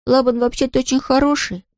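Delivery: high, earnest little fox; young fox voice. A narrator's reading. Fox pleads for his brother.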